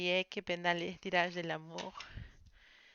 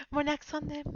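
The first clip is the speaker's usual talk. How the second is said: higher, louder, laughing through the words; amused self-teasing; laughing at own accent; 8 semitones higher, 6 dB louder than usual. Real, not acted. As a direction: giggle as you mock your own accent. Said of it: "bah, mon accent".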